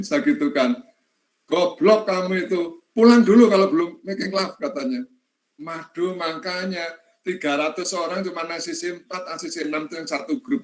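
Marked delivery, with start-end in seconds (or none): 1.5-4.5 angry scolding. Retold or imitated. Angry lecturer scolding student.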